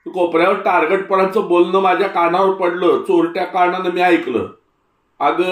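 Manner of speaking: put-on an old man owning up to his mistake; old Tatya explaining.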